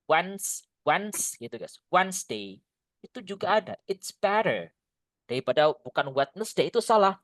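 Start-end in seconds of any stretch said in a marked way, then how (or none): 0.1-1.4 "Wednes-" clipped to "wans"; broken-off syllable. Shown as a demonstration. Teacher drilling the first syllable, clipped. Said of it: "Kayak gini".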